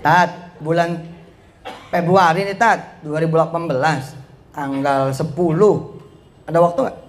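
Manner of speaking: matter-of-fact, phrase by phrase; direct request demo. Shown as a demonstration. Preacher shows how to book the Ustaz, direct. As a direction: set out the date plainly and confidently. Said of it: "Gitu ngomongnya".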